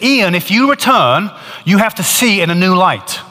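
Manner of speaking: voice of God. Retold or imitated. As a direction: call his name from the light, gravely. Voice from the light speaks.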